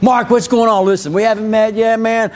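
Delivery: pumped friendly salesman greeting a rah-rah buyer; energetic greeting. Shown as a demonstration. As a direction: bring a little energy to it. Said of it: "go in with a little energy".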